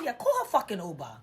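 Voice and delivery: loud, irritated retold retort; angry dismissal, acted out in retelling; so mad. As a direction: fling it out, fed up. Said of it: "'cause I was so mad".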